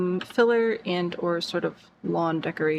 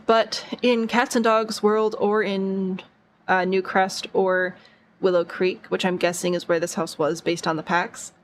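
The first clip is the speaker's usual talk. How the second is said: holding back hiccups mid-sentence; suppressing hiccups. Real, not acted. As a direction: talk through hiccups. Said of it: "Sorry, I've got the hiccups".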